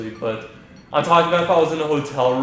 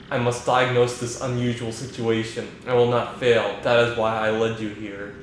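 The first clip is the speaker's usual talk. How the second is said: flat, even AI voice like Hal; calm, emotionless machine; monotone computer voice. Acted. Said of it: "just that monotone voice".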